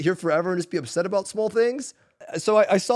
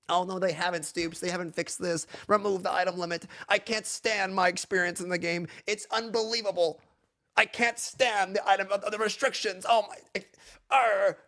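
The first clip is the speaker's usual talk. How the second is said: soft, mumbled mock complaining; quiet mock whining of a complaining player; mock whiner; 5 dB quieter than usual. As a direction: mumble like a sulky gamer griping. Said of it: "That's what you guys sound like".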